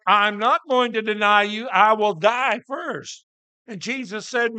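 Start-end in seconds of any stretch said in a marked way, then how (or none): 0.1-3.2 louder, insistent vow, slowing at the end; emphatic protest. Acted. Peter swears loyalty to Jesus, insistent. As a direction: act out an adamant denial.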